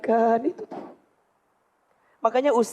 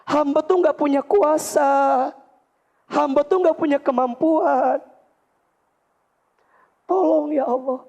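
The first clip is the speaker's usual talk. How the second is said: earnest pleading prayer; 3 semitones higher, slower than usual. Shown as a demonstration. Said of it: "Ibu tuh kudu minta bener".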